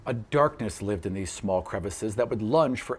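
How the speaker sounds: calm storyteller recap over music; story recap narration. A narrator's reading. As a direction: tell it like a chapter summary.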